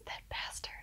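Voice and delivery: muttered whisper of mock resentment; soft unvoiced curse; whispered grumble. Real, not acted. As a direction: hiss it under your breath at the character. Fuming aside about Huldar.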